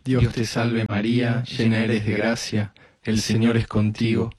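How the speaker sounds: even, repetitive Hail Mary cadence; rosary prayer. Real, not acted. Leading a decade of the rosary, recited prayer. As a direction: recite it steadily on a nearly level tone.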